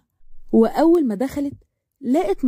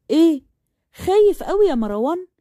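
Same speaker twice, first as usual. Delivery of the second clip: mocking higher voice, a scornful jab; sarcastic; 5 semitones higher than usual. A narrator's reading. Amal taunts scared Marwan, sarcastic and higher. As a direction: taunt him for being scared. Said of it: "ضحكت بسخرية".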